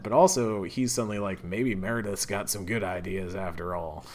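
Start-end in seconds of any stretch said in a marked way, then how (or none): 1.4-4.0 put-on southern accent. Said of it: "giving him a southern accent".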